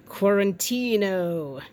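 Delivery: slow whispered word; slow playful whisper. Pretend. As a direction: breathe it out like a secret.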